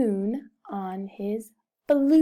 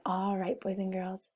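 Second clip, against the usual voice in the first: whisper; 4 semitones lower, 9 dB quieter than usual. Shown as a demonstration. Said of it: "teacher whispers to refocus class".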